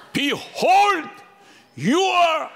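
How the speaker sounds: high loud shout with a laugh. Shown as a demonstration. Pastor demonstrating again for the congregation, laughing shout. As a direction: cry it out through a laugh. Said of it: "하고 외치는 겁니다".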